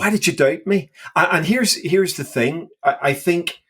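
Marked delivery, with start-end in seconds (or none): 0.0-0.9 pastoral nuance. Retold or imitated. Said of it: "read it with a pastoral nuance".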